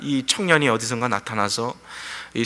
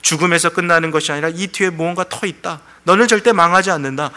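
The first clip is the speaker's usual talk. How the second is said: building to a loud, higher-pitched assurance; voice of the Lord; 4 semitones higher, 4 dB louder than usual. Acted. Preacher voices God telling a despairing believer it's not over, building insistence. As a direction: voice the Lord's promise with growing force. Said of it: "주님 말씀하시는 그 음성이 있는 거죠".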